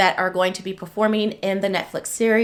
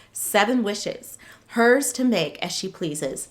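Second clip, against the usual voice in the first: dramatic book blurb reading; story narration. Acted.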